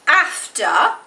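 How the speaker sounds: after with a clear r-coloured ending; own accent. Shown as a demonstration. Teacher showing her own after. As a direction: say after the way you really say it. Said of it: "But I might say".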